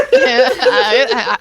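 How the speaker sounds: put-on spoiled rich girl. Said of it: "hearing Essie do that voice".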